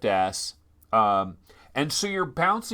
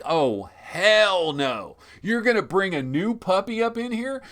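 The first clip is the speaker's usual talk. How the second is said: indignant dog; 5 semitones higher than usual. Pretend. Existing dog objects to the new puppy, indignant mock protest. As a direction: play an affronted pet objecting. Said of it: "your existing dog is like".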